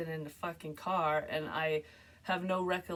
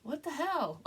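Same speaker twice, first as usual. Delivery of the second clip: high, baffled retold exclamation; imitating her dazed self on the ground; confused what the hell; 8 semitones higher, slower than usual. Dreamer sprawled by the cart, voicing high puzzled surprise. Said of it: "laying on the ground going".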